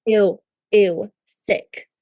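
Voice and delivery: grossed-out ew; disgusted. Real, not acted. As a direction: recoil in disgust, laughing. Reacting to used razors.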